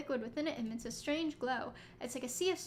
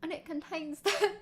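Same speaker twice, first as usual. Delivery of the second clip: bad British boy accent; 4 semitones higher than usual. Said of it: "the really bad Victorian British boy accent".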